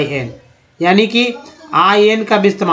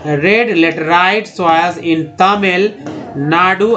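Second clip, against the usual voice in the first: slow reading; much slower than usual. Shown as a demonstration. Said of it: "reading the example sentence slowly".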